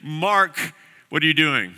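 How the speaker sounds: a single sharp call of the name Mark; sudden name call. Shown as a demonstration. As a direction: call Mark once to catch him. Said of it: "if all of a sudden you say their name".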